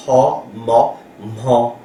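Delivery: HA, MA, then fused HMA; spaced teaching syllables; sound-blending demo. Shown as a demonstration. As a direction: spell it by sound, HA plus MA making MA with an H. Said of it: "ça commence par ha".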